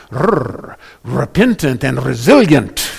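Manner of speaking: "Rrr" trilled, then trilled r in "repentant" and "resilient"; rolled r. Shown as a demonstration. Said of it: "I'm rolling my R's here".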